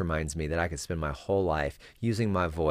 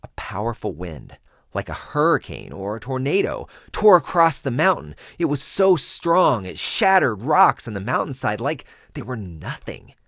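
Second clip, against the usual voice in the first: climbing much higher and louder, roaring wind; building storm narration; 5 semitones higher, 7 dB louder than usual. Shown as a demonstration. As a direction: let the wind tear through your voice.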